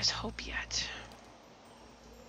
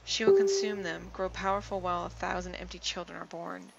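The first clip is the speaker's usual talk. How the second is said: lightly voiced stern goddess; grave, rising divine warning; commanding warrior goddess; 3 dB louder than usual. Goddess explains the queen.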